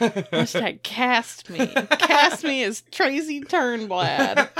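slow, drawn-out pleading; mock plea. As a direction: ham up a casting plea. Campaigning to be cast.

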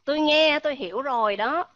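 loud emphatic uh; loud clear uh. Shown as a demonstration. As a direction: say the uh fully and loudly. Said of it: "đọc rõ ra".

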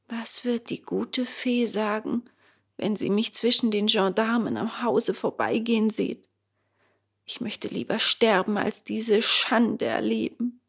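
brooding in shame; ashamed puppet boy. Acted. Bengele dreads the fairy.

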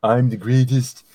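lightly voiced Trump, slow and boastful; a hint of Trump bragging; Trump impression. Podcaster doing a Trump voice for friends, lightly boastful. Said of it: "this is a good Donald Trump impression".

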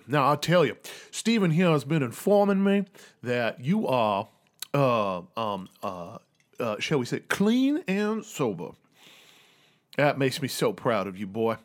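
lightly voiced genteel old colonel, proud of his boy; a touch of old Southern gentleman; old father figure. Plays the proud father Jiro.

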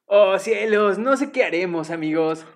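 mock stiff dubbed sigh; a light parody of neutral Spanish dubbing; old neutral Spanish dub. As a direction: imitate a stilted old cartoon dub. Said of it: "es divertido imitar".

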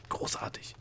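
soft unvoiced whisper. A narrator's reading. The gnome whispers to the princess, delighted and voiceless. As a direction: breathe it, pleased, without voice. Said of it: "wisperte der Gnom der Prinzessin zu".

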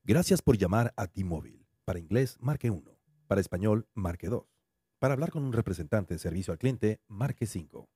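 T-Mobile phone menu voice. Pretend. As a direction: read it like an automated phone menu. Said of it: "que suena más o menos así".

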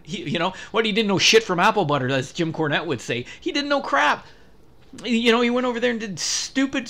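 real heated wrestling-pundit rant; angry rant. Real, not acted. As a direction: tear into him with exasperation. Heated rant against Vince Russo.

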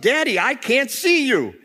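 put-on high-pitched child's yell; acted frightened shout. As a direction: yell out like a scared little boy. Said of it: "and he yells out".

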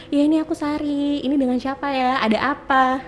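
mild put-on polite phone voice; posing as Sari. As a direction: pretend to be the woman they asked for.

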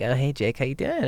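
mock the fake cheerful girl; high hammed-up bubbly voice. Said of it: "this very positive, cheerful delivery".

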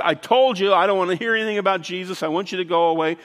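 insistent, mildly annoyed acted quote; retold irritated rebuff. Man telling a returning little girl to leave, retold irritated rebuff. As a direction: imitate someone losing patience with a caller.

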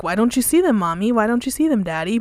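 a hint of a puzzled kid asking parents; imitated child. Child pointing out spirits to parents, lightly imitated. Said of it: "children talking to these spirits".

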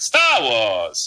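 put-on old radio announcer saying the title, drawn out; radio guy voice. Shown as a demonstration. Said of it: "like, the radio guy voice".

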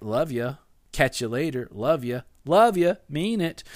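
tossed off, careless "love ya"; flippant. Shown as a demonstration. Spouse saying goodbye, casually flippant. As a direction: rattle off "love ya" without meaning it. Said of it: "it starts to lose its power".

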